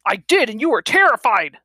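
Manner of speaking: loud, high jeering retort; pained taunt. Acted. Pinned old man jeering at Andy, pained taunt. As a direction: taunt her through the pain. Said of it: "sniggering in pain".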